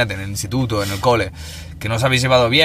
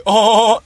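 mock laugh; 10 semitones higher, 6 dB louder than usual. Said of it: "se ríe".

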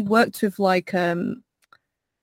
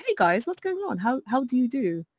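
lightly proper, polite streamer greeting; a hint of a polished office voice; posh office voice; 3 semitones higher, 4 dB quieter than usual. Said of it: "it will start off like".

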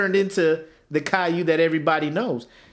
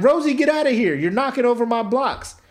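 Caillou whining; 7 semitones higher than usual. Retold or imitated. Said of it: "he's just like".

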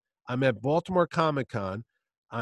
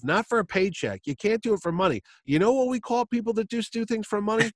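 lecturing Chaykin; 4 semitones higher than usual. Retold or imitated.

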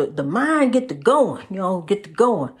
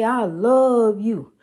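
slow self-love affirmation; much slower than usual. Shown as a demonstration. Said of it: "Look in the mirror and say".

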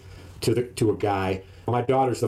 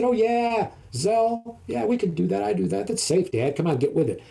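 much higher, breezy daughter voice; daughter's voice; 8 semitones higher than usual. Retold or imitated. Daughter brushing off her dad's worry, high and breezy. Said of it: "she said".

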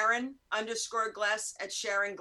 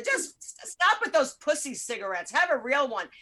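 mock-bossy friend, a bit louder; bossy friend quote; 3 semitones higher, 5 dB louder than usual. Imitating her friend scolding her over weak cigarettes, hammed up. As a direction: tease her like a pushy smoking buddy. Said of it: "And then she'd go".

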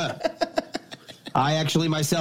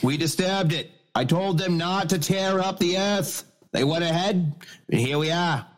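put-on Irish accent. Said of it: "this counts as an Irish accent".

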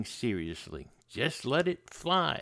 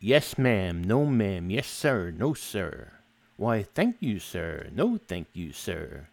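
overly polite; 5 semitones lower, slower than usual. Retold or imitated. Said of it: "to a fault polite".

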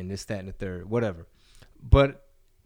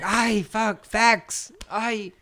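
much higher, whiny put-on voice; defeated opponents; 9 semitones higher, 8 dB louder, slower than usual. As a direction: wail it like a beaten troll. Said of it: "They're like".

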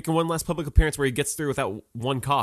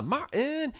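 drawn-out lament; 14 semitones higher, 3 dB quieter than usual. Pretend. Drawn-out name.

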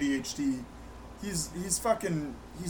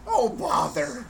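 Winnie the Pooh voice; 5 semitones higher, slower than usual. Pretend. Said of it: "He probably got honey".

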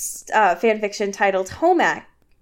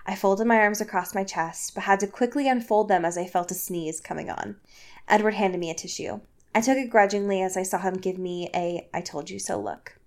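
soft, lowered fan-fiction reading; story narration; 4 semitones lower, 7 dB quieter than usual. Acted. Host reads fan fiction to co-host, story narration. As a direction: read it out quietly like a storybook.

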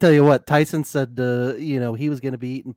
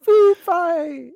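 whispered, much higher; 7 dB louder than usual. Pretend. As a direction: whisper it like a secret. Whispered joke.

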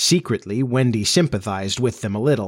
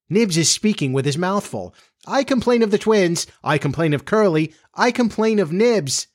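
lightly voiced tattling children; 6 semitones higher than usual.

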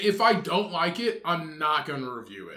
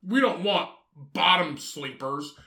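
slowed, laughing put-on voice stretching out bottom sleepers; lightly laughing put-on sneer at bottom sleepers; mock old-timer voice. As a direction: keep mocking the old-timers, savoring the silly phrase. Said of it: "They're like".

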